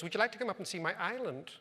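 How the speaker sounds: South Dublin woman in a faint put-on American accent; imitating her with a light American accent. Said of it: "but now she sounds American".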